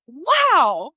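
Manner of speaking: high, gushing delight at a great coffee; coffee lover gushing over a perfect cup. Retold or imitated. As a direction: rave about it like it made your day. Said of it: "I'm like".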